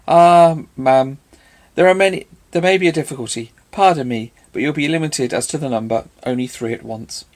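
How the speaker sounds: loud mock-courteous bow of a line; mock-formal teasing; mock ceremony. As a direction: tease her with grand politeness. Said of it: "mock ceremony of her manner".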